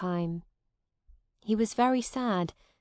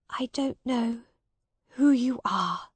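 higher, halting, subdued lady's voice; sad Lady Edith; 4 semitones higher than usual. Acted. Sad lady denies the man who loves her, subdued. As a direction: deny him sadly, holding back tears.

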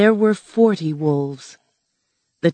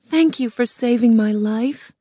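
put-on higher, grateful young girl; 6 semitones higher than usual. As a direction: thank him warmly as a girl. Dorothy thanks Tin Man.

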